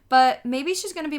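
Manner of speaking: put-on child voice. A narrator's reading. Fudge boasting, child voice.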